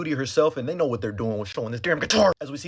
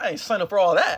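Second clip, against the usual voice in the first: chuckling, higher and nervous; laughing refusal; 5 semitones higher, 4 dB louder than usual. Retold or imitated. Flamethrower guys backing out on Tommy, laughing. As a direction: laugh through the line.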